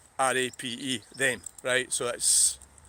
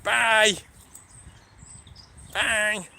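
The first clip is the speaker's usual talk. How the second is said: high sing-song farewell; singsong goodbye; 7 semitones higher, much slower than usual. Real, not acted. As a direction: call bye, rising higher each time. Sign-off farewells rising.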